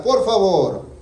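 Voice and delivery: lightly voiced widow asking please; a hint of a pleading widow. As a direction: widow begging the judge, lightly played. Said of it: "Le decía".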